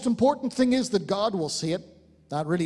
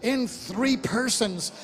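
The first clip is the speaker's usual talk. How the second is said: getting excited; 3 semitones higher, slower than usual. Real, not acted. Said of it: "Forgive me for getting a bit excited".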